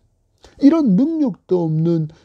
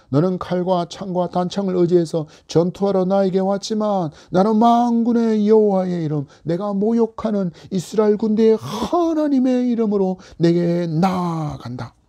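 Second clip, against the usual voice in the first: bold declaration. Acted. David facing Goliath, bold defiant declaration. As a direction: declare it fearlessly to the giant. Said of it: "다윗이 담대하게 선언합니다".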